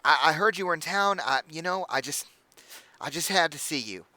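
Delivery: high, gushing hostess voice; bubbly halfling innkeeper. Acted. Innkeeper welcoming the party, high and gushing. Innkeeper eager to meet Elizabeth.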